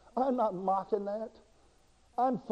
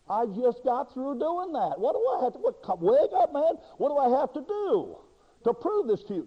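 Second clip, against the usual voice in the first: mock exasperation, higher, with a laugh; hammed-up impatient God, louder; exasperated God; 5 semitones higher, 3 dB louder than usual. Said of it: "there's not a word from God that says".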